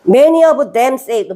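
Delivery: very slow, word by word English; slow reading. Shown as a demonstration. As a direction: read each word out slowly for the class. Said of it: "많은 사람들이 이야기하는 거예요". (아주 느리게 또박또박 읽기)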